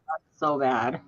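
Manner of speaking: soft laughing disbelief; giggling under the breath. Real, not acted. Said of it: "Oh, my God".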